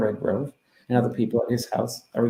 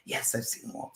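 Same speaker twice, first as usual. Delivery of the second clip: very soft, unvoiced answer; a faint spirit whisper answering a question; whispered reply; 13 dB quieter than usual. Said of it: "And she goes".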